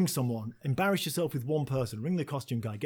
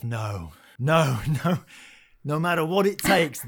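firm self-command; 7 dB louder than usual. Retold or imitated. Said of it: "I said to myself".

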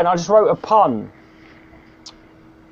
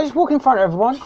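cheery MC; 10 semitones higher, faster than usual. Retold or imitated. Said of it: "I go".

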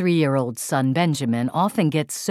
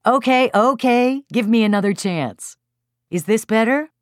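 higher, hurried plea for another chance; placating; 7 semitones higher, 3 dB louder than usual. A narrator's reading. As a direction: hold off an annoyed crowd. Placating the annoyed group.

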